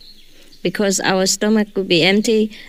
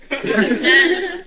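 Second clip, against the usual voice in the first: laugh; 8 semitones higher than usual. Real, not acted. Joking that your IQ goes up.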